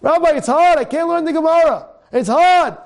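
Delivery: a student pleading with the rabbi, high and whiny; whining student. Retold or imitated. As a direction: whine that the Gemara is too hard. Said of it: "A guy coming to Gemara".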